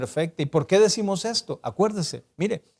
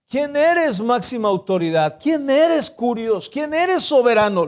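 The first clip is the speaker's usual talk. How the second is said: rising high questions, each one more urgent; Saul pleading; 5 semitones higher than usual. Acted. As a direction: Saul calling out higher and higher to an unseen voice. Preacher voices Saul asking Jesus.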